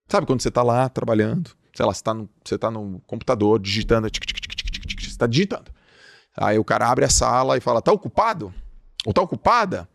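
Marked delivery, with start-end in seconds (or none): 4.1-5.1 typing sound effect. Retold or imitated. Mimicking keyboard typing. 7.8-9.9 intrusive coworker. Retold or imitated. Coworker interrupting at the door.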